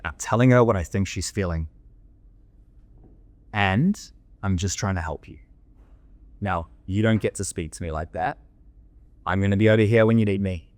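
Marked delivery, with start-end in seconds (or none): 4.4-10.7 calm but firm. Shown as a demonstration. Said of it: "I speak exactly like this".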